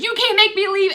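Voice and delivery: high, loud defiant retort; defiant grandma. Retold or imitated. Grandma refusing grandpa, loud and high defiance. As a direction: dig in your heels like a stubborn grandma. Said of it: "grandma looks at him and says".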